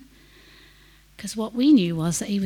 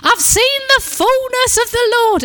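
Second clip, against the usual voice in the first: shouting; 9 dB louder than usual. Retold or imitated. Patient behind the curtains crying out his revelation, high ecstatic shout. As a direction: cry it out from the trolley, beside himself with joy. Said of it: "top of his lungs".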